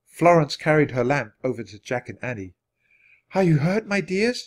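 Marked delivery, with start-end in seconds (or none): 3.3-4.4 higher-pitched, tender question; gently concerned nurse, lightly voiced; soft, comforting. A narrator's reading. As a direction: comfort hurt children with a light, high voice. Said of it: "she asked in a soft, comforting voice".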